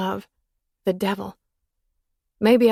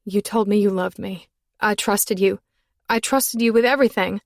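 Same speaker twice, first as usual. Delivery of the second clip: hurt; 4 dB louder than usual. Acted. Woman reproaching lover.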